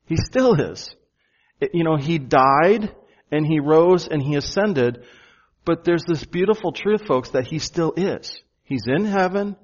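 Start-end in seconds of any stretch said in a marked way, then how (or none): 0.1-0.9 "still" pushed up and out, then falling; stress on still. Shown as a demonstration. Preacher stressing to the church that he "still" is. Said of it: "Did you notice the present tense?". 7.1-8.4 "still" given the weight, falling after; stress on still. Shown as a demonstration. Preacher reminding the folks that he "still" is. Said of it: "Did you notice the present tense?".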